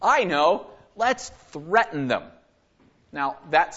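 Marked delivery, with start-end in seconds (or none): 0.0-2.2 lightly acted schemer having a bright idea; slow down as the plan dawns, a touch hammed-up. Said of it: "somebody gets the bright idea".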